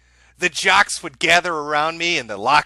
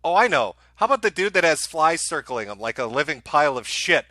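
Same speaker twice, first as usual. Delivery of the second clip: mock girly voice. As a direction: play a dreamy teen girl, hammed-up. Plays Jade choosing a boyfriend.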